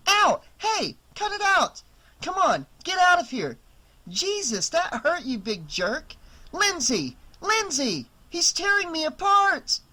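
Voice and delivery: high, loud shrieks of pain and alarm; panicked yelling. Acted. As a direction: yelp and scream as the dog goes for her. Attacked by the dog.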